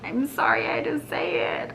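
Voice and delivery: whispered apologetic aside; sheepish whisper to the camera. Acted. Apologetic aside after blunt line.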